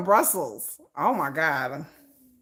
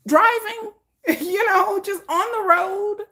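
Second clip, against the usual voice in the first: giggling; 12 semitones higher, slower than usual. Real, not acted. Joking about heading to sixty.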